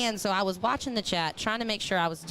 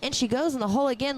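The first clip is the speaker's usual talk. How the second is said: lightly mocking a monotone play-by-play caller; a hint of a bored announcer droning each shot; mock dull commentator. Host mocking a dull caller for viewers, lightly droning. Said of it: "do you want me to sit here and be like".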